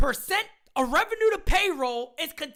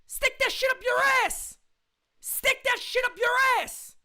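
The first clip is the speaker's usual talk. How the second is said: angry retort; 4 semitones higher than usual. Real, not acted. Angry fan at pundits.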